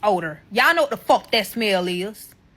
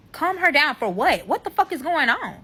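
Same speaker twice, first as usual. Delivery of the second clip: higher-pitched incredulous retort; indignant demand; 6 semitones higher than usual. Retold or imitated. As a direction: retell it as an indignant challenge. Retold quarrel, questioning his excuse.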